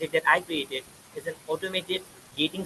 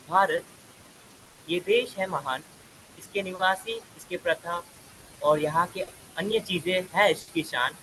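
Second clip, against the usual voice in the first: fast rhythmic recitation; recited poem; much faster than usual. Acted. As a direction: declaim the verse quickly. Rhyming Hindi opening verse.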